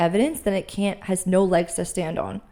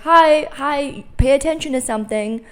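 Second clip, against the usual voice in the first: high, louder, eager calling for attention; body knocking; 5 semitones higher, 5 dB louder than usual. Pretend. Anxious body knocking to get her attention, high and eager. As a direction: play the body tapping you on the shoulder. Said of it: "my body, like, knocking at me, being like".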